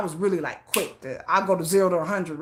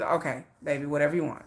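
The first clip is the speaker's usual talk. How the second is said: lower, lightly voiced husband giving in; easygoing husband; 3 semitones lower, 5 dB quieter, faster than usual. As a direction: imitate a placid, agreeable reply. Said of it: "never raised his voice to me ever".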